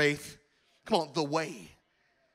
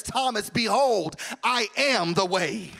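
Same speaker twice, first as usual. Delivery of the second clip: solemn Jesus; 9 dB louder than usual. Acted. Jesus answers Thomas, slow and solemn.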